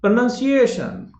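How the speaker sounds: "प्रोनंसिएशन" slow and high, with "nun"; slow pra-nun-si-AY-shun "प्रोनंसिएशन"; model pronunciation. Shown as a demonstration. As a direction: spread out "प्रोनंसिएशन" for repeating. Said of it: "बोल के देखिए".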